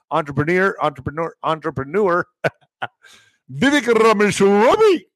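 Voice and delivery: finally getting "entrepreneur" out through a laugh. Real, not acted. Streamer laughs after stumbling on a word, laughing.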